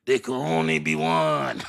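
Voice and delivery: slow, drawn-out heroic declaration; dramatic movie-hero line. Acted. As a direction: intone it like an action-movie immortal. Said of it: "that's how I used to act".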